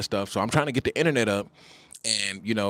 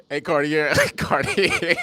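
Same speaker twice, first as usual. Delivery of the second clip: higher, laughing sing-song tease; teasing call through laughter; 7 semitones higher, slower than usual. Retold or imitated. Mocking the wife with a giggly high call. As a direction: laugh through the name Cartier.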